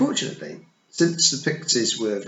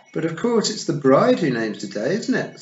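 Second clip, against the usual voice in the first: cheerfully; 8 semitones higher, 7 dB louder than usual. A narrator's reading. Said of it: "said Tiffany cheerfully".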